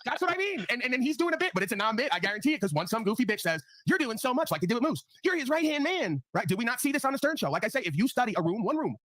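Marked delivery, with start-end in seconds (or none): 3.9-6.2 mock flattery. Mocking a flatterer.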